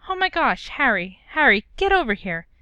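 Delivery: eager motherly hail; excited calling out. Acted. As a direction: call Harry over, delighted. Mrs Weasley calling Harry over.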